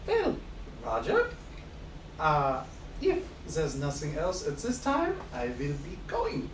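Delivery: put-on accented character voice, restrained; Bert, shaken. Sheet-white Bert taking leave of Roger, stiff accented voice. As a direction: excuse yourself stiffly in an accent. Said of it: "he's like".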